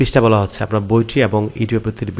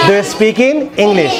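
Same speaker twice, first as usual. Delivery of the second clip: slow model sentence; 10 semitones higher, 5 dB louder, much slower than usual. Shown as a demonstration. Teacher models English answer.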